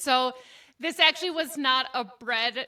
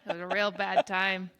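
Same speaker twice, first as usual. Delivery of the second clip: put-on Midwest accent. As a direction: lay the Minnesota-Wisconsin accent on thick. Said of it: "You nailed that for, like, two solid minutes".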